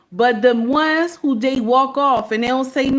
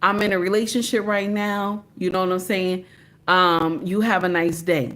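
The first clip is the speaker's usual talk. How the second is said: polite decline; 4 semitones lower than usual. Shown as a demonstration. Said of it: "just say".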